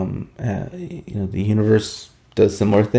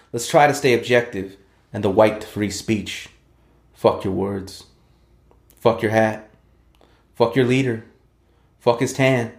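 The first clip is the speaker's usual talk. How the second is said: rhythmic slam-poetry recitation building to a defiant roll call; spoken word poem; 2 semitones higher than usual. Acted. Poet to podcast host, reciting his anti-Trump slam poem, defiant spoken word. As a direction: perform it like a protest slam, punching each line.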